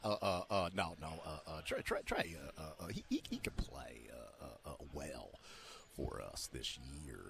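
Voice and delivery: stammering, fading down to a whisper; flustered stammering. Retold or imitated. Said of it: "And he was like".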